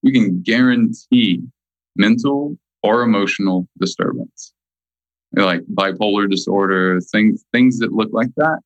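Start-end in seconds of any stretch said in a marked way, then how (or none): 0.0-1.4 deliberate, drawn-out words with firm weight; slow, emphatic. Real, not acted. Guest repeating a key point so people really get it, slowly. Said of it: "slowly so people really get it". 2.0-4.5 measured phrases with deliberate pauses; slow, emphatic. Real, not acted. Guest making sure people really get it, slow and deliberate. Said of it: "slowly so people really get it".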